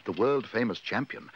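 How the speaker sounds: plain reading voice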